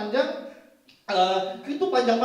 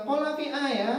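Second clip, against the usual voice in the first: "V I" with final consonant dropped; Vietnamese-accented order; 4 semitones higher than usual. Retold or imitated. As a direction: imitate Vietnamese-accented customer ordering cola. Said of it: "Dia bilang". (pesan kola berlogat Vietnam)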